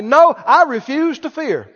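bold, emphatic declaration of faith; preacher's firm out-loud confession; speaking out loud. Shown as a demonstration. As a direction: declare it out loud, punching key words. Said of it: "speak out loud and say".

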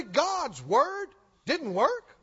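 drawn-out accusing voice of a complaining believer; preacher mimics a proud complainer, slow and mocking; slow mocking quote. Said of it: "and say".

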